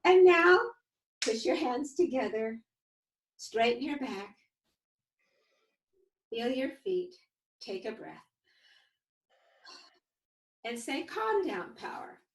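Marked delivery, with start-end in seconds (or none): 1.2-12.2 calm coaching. Shown as a demonstration. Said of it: "You can all practice with us".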